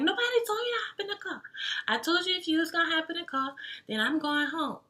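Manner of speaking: fast, high imitation of a scolding friend; high-pitched voice. Friend refuses to drive the guy back, imitated high-pitched scolding. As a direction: rattle it off in a squeaky-high mimicked voice. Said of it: "high-pitched voice".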